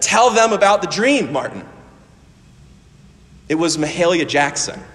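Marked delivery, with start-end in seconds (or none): 0.0-1.6 urgent loud call to Martin. Retold or imitated. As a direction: call out from behind him. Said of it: "a voice from behind him said".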